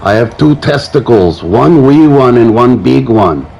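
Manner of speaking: put-on Scottish accent. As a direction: say it in a shaky amateur Scottish accent that drifts toward German. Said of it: "sometimes my Scottish accent morphs into German".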